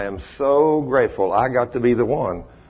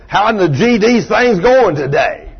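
a hint of a gruff old man cussing; mildly hammed-up cranky old mechanic's customer; rough old cusser; 9 semitones higher, 7 dB louder than usual. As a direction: lightly play the foul-mouthed customer. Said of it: "that's the way he talked".

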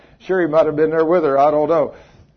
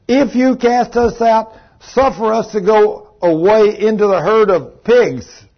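louder, higher, slow begging of the devils; pleading devils; 5 semitones higher, 5 dB louder than usual. A narrator's reading. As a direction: beg like the cornered demons. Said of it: "the devils besought him".

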